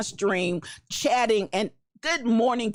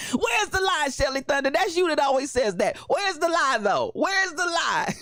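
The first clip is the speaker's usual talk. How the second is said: excited catchphrase; 5 semitones higher than usual. Real, not acted. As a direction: shout it like a rally cry. Gleeful catchphrase shout.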